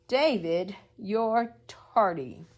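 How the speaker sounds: loud and slow, a stern reproach; scolding teacher. Acted. Teacher scolding David for being tardy, loud and slow. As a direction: tell him off for being late.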